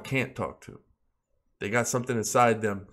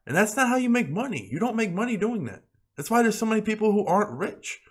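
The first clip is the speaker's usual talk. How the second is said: high-pitched, insistent scolding; exasperated lecture; 10 semitones higher than usual. Real, not acted. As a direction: drive the point home, pitched well up. Scolding viewers who panic sell.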